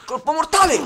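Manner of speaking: loud triumphant game shout; shouted kill call. Real, not acted. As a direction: yell the finishing move. (grido trionfale)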